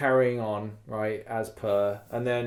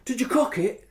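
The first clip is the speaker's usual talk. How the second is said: mocking question; 10 semitones higher than usual. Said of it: "I said to, uh, K-, Panda".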